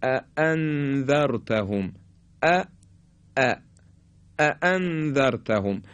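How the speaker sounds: اَأَنذَرْتَهُمْ with both glottal stops crisp and heavy; sharp separate hamzas. Shown as a demonstration. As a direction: strike each hamza of اَأَنذَرْتَهُمْ firmly apart. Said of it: "این تیزی به خاطر اینکه خیلی جدا و سنگین". (اَأَنذَرْتَهُمْ با دو همزهٔ تیز و جدا)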